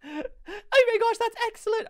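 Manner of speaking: lady voice. Acted. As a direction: praise it in a put-on lady voice. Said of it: "I'm gonna talk normal".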